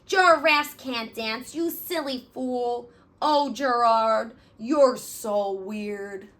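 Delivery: slow, jeering schoolyard taunt; mocking taunt. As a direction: sneer at him like a bully. Animals mock Gerald.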